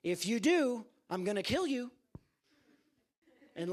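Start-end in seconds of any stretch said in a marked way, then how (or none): 0.0-1.9 loud, higher bully threat; hammed-up gunman threat; threatening thug. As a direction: bark the threat at him. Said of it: "point a gun at Lazarus and say".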